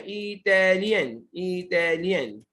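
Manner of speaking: slow, measured dictation of "इटालियन" for the class; slow sounding-out. Shown as a demonstration. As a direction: stretch इटालियन out syllable by syllable. Teacher sounds out word for students. ("इटालियन" धीरे-धीरे, तोड़कर)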